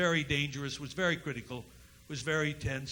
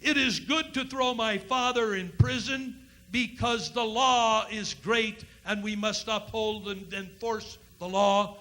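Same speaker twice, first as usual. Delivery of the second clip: higher, slow mock-pious proclamation; mock hosannas; 5 semitones higher, 3 dB louder than usual. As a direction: trumpet the law's praises in mockery. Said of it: "shout holy hosannas".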